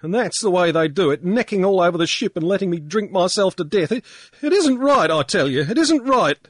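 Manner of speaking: high, loud tearful ranting; blubbering drunk. A narrator's reading. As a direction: blubber out your grievance. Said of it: "Pankburn was blubbering".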